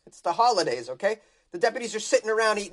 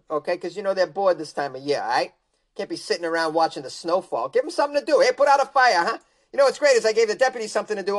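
cocky Florida man. Acted. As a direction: brag like a proud meth-head. Voicing the arsonist.

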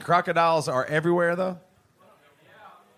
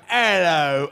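put-on butchered Australian accent; 5 dB louder than usual. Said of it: "I'm gonna butcher your accent".

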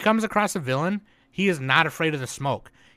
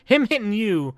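ranting yell; 6 semitones higher, 3 dB louder than usual. Real, not acted. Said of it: "I didn't mean to yell".

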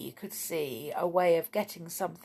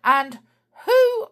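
fast, loud, high accusation; quarrelsome cry; 7 semitones higher, 11 dB louder than usual. A narrator's reading. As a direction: rattle off the accusation, rising until cut off. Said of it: "cried Sneery".

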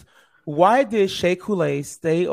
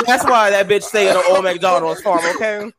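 imitating Omar's accent; 3 semitones higher than usual. Host doing Omar in a Snatch Game answer, lightly voiced. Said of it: "let me get the accent right".

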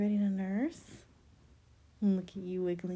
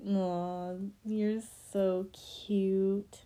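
tender cooing; much slower than usual. Acted. Mother cooing at baby.

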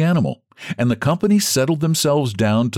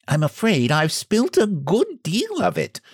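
higher, sheepish apology; apologetic hostess; 10 semitones higher than usual. A narrator's reading. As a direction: say it with an embarrassed apology. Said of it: "she said apologetically".

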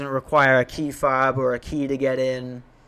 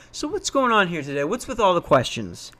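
a little higher, a touch of a probing investigator; detective mode; 3 semitones higher, 3 dB quieter than usual. Retold or imitated. Pressing the visitors about their questions, mild detective tone. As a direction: lightly play the cop who has caught them out. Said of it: "drops it into detective mode".

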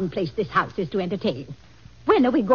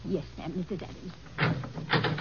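sulky murmur; 9 dB quieter, slower than usual. Acted. Maid obeys after being scolded.

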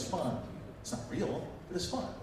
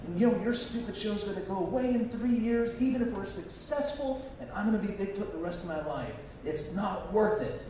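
retold yelling; 9 semitones higher than usual. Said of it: "standing up yelling at them".

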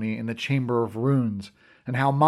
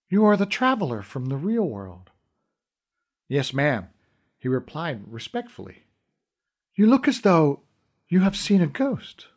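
lightly voiced queen. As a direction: speak with gentle royal authority. Fawn the queen speaks.

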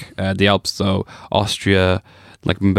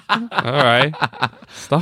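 laughing; 12 semitones higher, much slower than usual. Real, not acted. Laughing at cat-faced creature.

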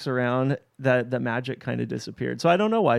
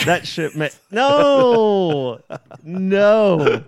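high, loud no; loud protest; 7 semitones higher, 7 dB louder, much slower than usual. Real, not acted. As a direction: protest loudly at him. Scolding cohost playfully.

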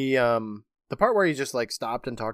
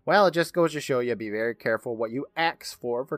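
jack o lantern voice; 4 semitones higher than usual. Retold or imitated. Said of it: "he's giggling".

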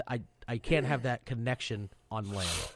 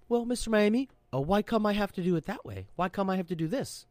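higher-pitched mock whine; complaining junior sailor; 6 semitones higher than usual. Junior sailor questioning Mister Miami's orders, mock complaint.

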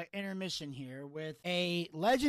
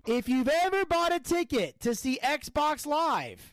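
hammed-up comedian voice; 8 semitones higher, 5 dB louder, slower than usual. Redneck joke in hammed voice.

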